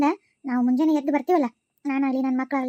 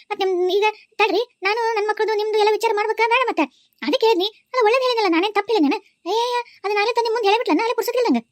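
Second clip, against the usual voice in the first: indignant protest; 3 semitones higher than usual. Acted. Aunt protests to husband.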